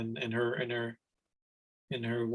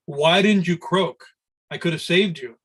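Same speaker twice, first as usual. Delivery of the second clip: chastising; 4 semitones higher, 5 dB louder than usual. Retold or imitated. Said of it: "he chastised the frog".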